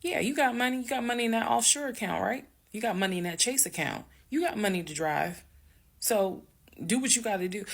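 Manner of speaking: high, fast, mocking yell; retold yelling. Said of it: "I'm yelling".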